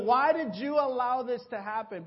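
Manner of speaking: high, loud demanding question; angry plea. Retold or imitated. Complaining to God, high loud demanding why.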